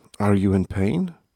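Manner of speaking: ordinary delivery, nothing marked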